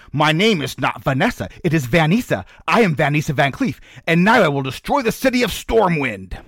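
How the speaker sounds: rising villain anger; snap, then build to a threat; snapping. Acted. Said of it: "Vanessa snapped".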